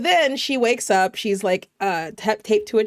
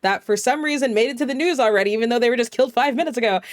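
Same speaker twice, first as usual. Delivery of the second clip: fake news anchor; 2 semitones higher than usual. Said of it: "some dude saying".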